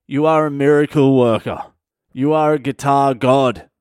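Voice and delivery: loud, emphatic acclaim; effusive praise. Retold or imitated. Pupil praising guitar teacher after free lesson, effusive. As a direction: proclaim it like worship of a hero.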